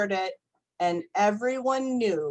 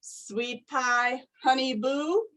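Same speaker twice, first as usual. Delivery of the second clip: cooing; 2 semitones higher, slower than usual. Acted. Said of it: "my mom coos".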